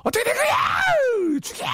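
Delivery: very high, drawn-out tearful shriek; mock drunken crying. Shown as a demonstration. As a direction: wail the demand as if drunk, hammed up. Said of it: "술자리에서 또 울면서". (술 취해 울부짖는 흉내)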